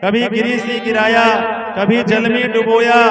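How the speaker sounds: half-sung poem in a gentle, tender cadence; devotional verse recital. Acted. Preacher reciting Narasimha's tender words to Prahlad.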